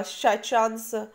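"शाइचंस" with ch in the middle, slow; tentative pronunciation. Shown as a demonstration. Teacher retrying an unfamiliar name, tentative pronunciation. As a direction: try "शाइचंस" as shai-chuns, drawn out. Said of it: "इसको क्या pronounce करेंगे".

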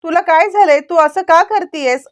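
a mother scolding her daughter, pitch climbing; mild acted scolding that rises; mother telling off her child, lightly voiced. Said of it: "ओरडायला लागते".

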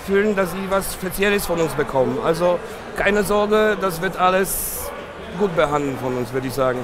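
non-native German accent. Real, not acted. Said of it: "mein Deutsch ist vielleicht nicht so gut".

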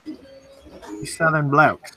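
slow, drawn-out stab at British; badly faked British, stretching out the words; attempted British accent. Teasing the Southern English with a mock British accent. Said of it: "I can't do a British accent".

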